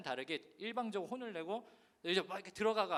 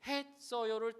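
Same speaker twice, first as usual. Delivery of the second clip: one syllable at a time; 4 semitones higher, much slower than usual. Retold or imitated. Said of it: "한 글자씩 외-, 외치는데".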